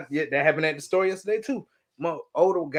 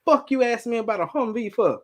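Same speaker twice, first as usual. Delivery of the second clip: mock furious rant; 8 semitones higher than usual. To coworkers calling on Saturday, much higher mock furious rant. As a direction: blow up at a Saturday work call. Ranting about weekend work calls.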